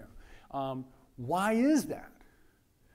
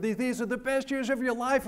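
mock grown-up advice; 6 semitones higher than usual. Adults telling students about college.

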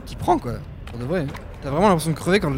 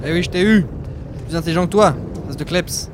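loud gloating, higher pitch; triumphant taunt; 4 semitones higher, 7 dB louder than usual. Real, not acted. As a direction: crow over the beaten dog. Taunting the dog he escaped. (moquerie triomphante)

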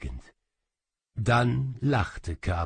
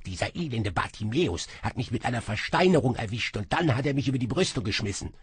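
rushed, aggrieved tattling; fast complaining; 3 semitones higher, much faster than usual. Acted. Little demon complains fast about Bartimäus. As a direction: blurt out the grievance fast. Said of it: "jammerte er".

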